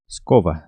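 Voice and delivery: "escova" with a v sound, falling at the end. Shown as a demonstration. Teacher modelling the word for broom, v sound in "escova". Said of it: "dessa maneira".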